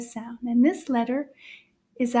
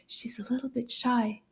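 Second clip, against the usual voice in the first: soft aside; 6 dB quieter than usual. Acted. Confiding about shy puppet.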